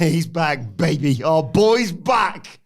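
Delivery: high, loud cheer with a stretched finish; exuberant hype. Pretend. Host hailing a wrestler's return, exuberant celebration. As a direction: build to a long, high "back".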